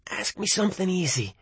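soft hushed voice; whispered. Acted. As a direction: breathe it out quietly. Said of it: "he whispered".

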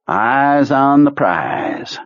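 slow, drawn-out calm command; Kurtz voice. Acted. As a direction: savour each word.

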